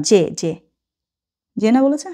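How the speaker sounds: ordinary talk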